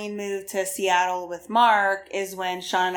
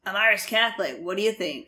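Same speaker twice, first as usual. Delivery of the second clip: put-on Boston accent; faster than usual. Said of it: "I don't think your Boston accent".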